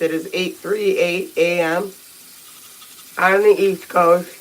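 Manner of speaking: slow words around a toothbrush; while brushing teeth. Real, not acted. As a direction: speak mid-brush, mouth full of foam. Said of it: "while I'm brushing my teeth".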